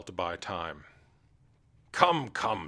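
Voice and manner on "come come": impatient king. Acted. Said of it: "said the king ... in anger".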